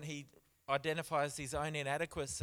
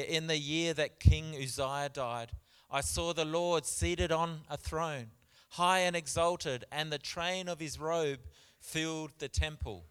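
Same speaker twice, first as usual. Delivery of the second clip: louder, declaimed Bible reading; scripture reading; 5 dB louder than usual. Acted. Preacher reading Isaiah's vision to church, proclaiming. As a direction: read the verse out boldly to the congregation.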